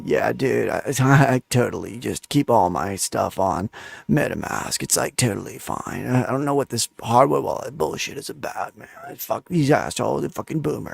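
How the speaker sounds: soft, creaky put-on vocal fry voice. Telling listeners how newcomers might answer about hardware wallets, imitating a vocal fry answer. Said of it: "give you the vocal fry answer of".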